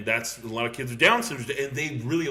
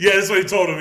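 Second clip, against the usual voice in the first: laughing; 8 semitones higher, 12 dB louder, faster than usual. Real, not acted. Laughing at the movie joke.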